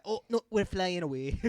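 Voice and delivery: loud, high Scottish wail; Scottish accent. Retold or imitated. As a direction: cry out as a mock-panicked Scot. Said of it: "Remember that Vine?".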